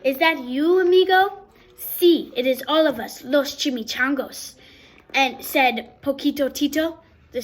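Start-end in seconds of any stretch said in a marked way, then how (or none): 0.0-4.5 excited. Acted. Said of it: "excited friends greeting".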